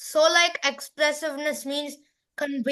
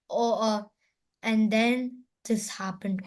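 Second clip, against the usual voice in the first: soft, slower, sad telling; 4 semitones lower, 5 dB quieter than usual. Shown as a demonstration. Student showing the class a melancholy speech part. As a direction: drop into a soft, sad storyteller voice. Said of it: "it can be like".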